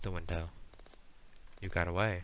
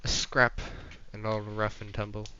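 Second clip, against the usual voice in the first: loud, hammed-up swordsman; theatrical duel challenger; 4 dB louder than usual. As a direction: relish each word, building to a challenge.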